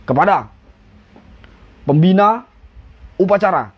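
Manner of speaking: short words, a pause after each; plain firm command in three measured pieces; aba-aba secukupnya. Shown as a demonstration. (aba-aba pendek, dijeda per kata)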